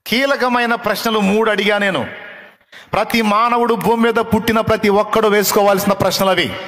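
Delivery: loud, high preaching at full force; fervent preaching. Acted. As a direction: hammer the three questions home to the crowd. Preacher drives home the point.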